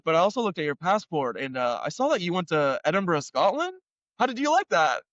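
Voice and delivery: high, chatty imitation of the cop; mock-cheerful police officer; cop's voice. Cop voiced asking about passport.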